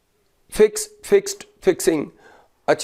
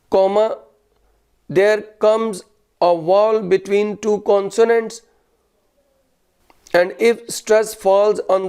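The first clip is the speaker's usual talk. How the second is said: very slow, word-by-word dictation; much slower than usual. Real, not acted. Teacher dictating a grammar rule to students, slow dictation. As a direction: dictate it with pauses between phrases, punctuation spoken.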